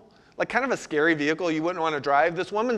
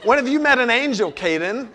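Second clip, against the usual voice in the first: higher, louder mock-scolding mom; indignant mother; 4 semitones higher, 4 dB louder than usual. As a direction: challenge the child like an exasperated mother. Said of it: "like a good mother".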